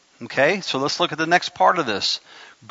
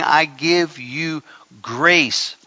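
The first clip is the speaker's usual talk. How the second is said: voicing God; 5 semitones lower, slower than usual. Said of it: "he's saying".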